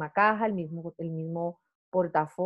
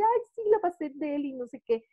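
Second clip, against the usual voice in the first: quoting a client; 6 semitones higher, faster than usual. Retold or imitated. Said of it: "Me dice".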